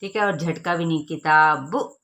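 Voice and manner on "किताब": किताब cut off abruptly at the end; wrong, jerked किताब. Shown as a demonstration. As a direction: chop the final vowel short. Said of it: "ये भी झटका कहलाता है".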